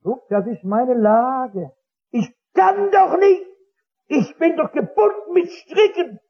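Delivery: lightly voiced desperate drinker, half-laughing at his own misery; despairing drunkard. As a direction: drunkard shows the missionary he is bound, despairing. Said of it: "sagt der Trinker zu dem Stadtmissionar".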